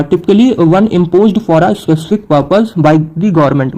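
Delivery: slow, careful definition read aloud; deliberate teacher's dictation pace. Shown as a demonstration. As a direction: read each English word out slowly for students. Reads definition slowly.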